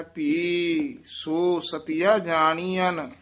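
ਭੀ said with weight and a doubled feel, the line taken slowly; careful slow demo. Shown as a demonstration. Teacher slowly modelling ਭੀ ਸੋ for the student, with weight on ਭੀ. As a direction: slowly lean on ਭੀ before ਸੋ. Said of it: "ਭੀ ਪਦ ਤੇ ਯਮਕ ਲਾ ਕੇ ਉਚਾਰਨ ਕਰਨਾ ਹੈ".

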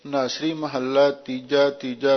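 ਤੀਜਾ said twice in a row; doubled heading word. Shown as a demonstration. Preacher instructing readers on the heading, ਤੀਜਾ pronounced twice. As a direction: read the heading, then repeat ਤੀਜਾ. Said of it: "ਦੋ ਵਾਰੀ ਉਚਾਰਨ ਕਰੋ".

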